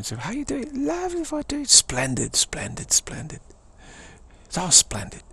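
high, swooping British pleasantries; cheery British accent. Acted. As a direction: greet them in a hammed-up British accent. Acts a British chap exchanging pleasantries.

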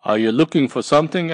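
quick squeaky question; Mouse asking. Acted.

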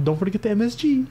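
a bad put-on Asian accent; terrible Asian accent. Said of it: "That was a terrible Asian accent".

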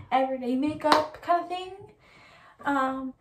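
talking around a sore lip; cold sore on lip. Real, not acted. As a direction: speak carefully around a painful lip. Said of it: "if I talk really weird in this video".

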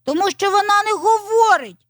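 high, loud little rooster; high-pitched exclamation; exclaiming. A narrator's reading. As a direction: call it out as a small rooster. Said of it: "вигукнув маленький півник Петрик".

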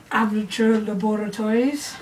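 light mock French accent. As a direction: say it with a hint of French. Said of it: "I had a little French accent there".

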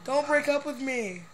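mock pleading. Mock begging to a game girlfriend.

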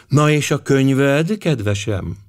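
a sweet, smiling question with a lift; charming smile. A narrator's reading. Mrs. Conrad sweetly questions Lady Juliet, smiling. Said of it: "kérdezte elbűvölő mosollyal".

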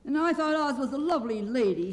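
high-pitched surprised voice; Scarecrow. A narrator's reading. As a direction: chime in high with dismay. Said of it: "said the Scarecrow".

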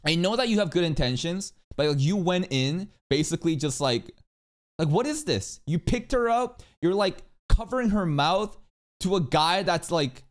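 high-pitched, incredulous scolding; appalled rant, voice held high; exasperated scolding. Real, not acted. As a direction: call out a friend's blunder in disbelief. Scolding a character for his behavior.

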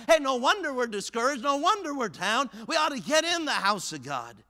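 high, loud, driving exhortation; fired-up preaching. Real, not acted. Preacher urging congregation to bring their jugs, fired-up preaching. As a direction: preach it hard in pounding phrases.

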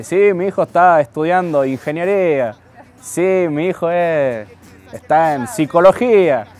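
playful imitation of a boastful mum among friends; lightly voiced mother chatting with her friends; mom bragging to friends. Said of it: "yo me imagino a mi mamá con sus amigas ahí".

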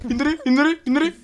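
frantic shouting. Real, not acted. Frantic callouts during attack.

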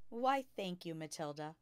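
a light smile in the voice; smiling thanks. Acted. Teacher thanking Matilda for her limerick, lightly smiling. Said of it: "still smiling".

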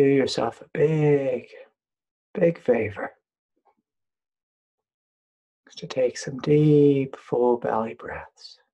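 unhurried meditation guide, long pauses between phrases; guided meditation. Real, not acted. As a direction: lead listeners gently, leaving room to breathe.

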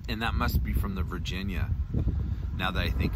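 talking around pipe stem; pipe in mouth. Real, not acted. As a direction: lips clenched on stem. Seen 2: Pipe stem clenched in his mouth; briefly removed near 5.7-6.4 s.

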